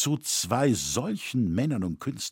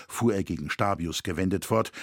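ordinary delivery

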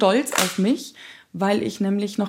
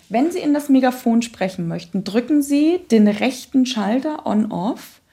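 manual read-out. Shown as a demonstration.

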